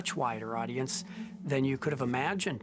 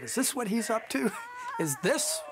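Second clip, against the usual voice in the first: higher-pitched mock questioning; imagined disbelief; 7 semitones higher than usual. Imagining the actor's wife questioning his job, mildly incredulous. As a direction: voice a wife's imagined doubts. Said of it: "maybe she just thought".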